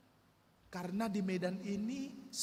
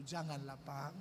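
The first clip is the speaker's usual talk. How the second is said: much softer, pleading haggle; timid bargaining; 6 semitones lower, 7 dB quieter than usual. Retold or imitated. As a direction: plead with him meekly, low. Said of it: "Saya tawar-tawar dengan bapak itu". (menawar dengan memelas, jauh lebih pelan)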